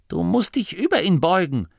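put-on bossy old Oma. A narrator's reading. Oma Morky hushing the young nome at the sickbed. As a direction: play a stern old granny hushing visitors. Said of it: "sagte Oma Morky".

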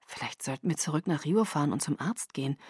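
soft, low, mildly worried suggestion. Acted. Boyfriend urging his sick girlfriend toward a doctor, worried. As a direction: suggest it quietly, with understated concern. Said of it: "sagte er besorgt".

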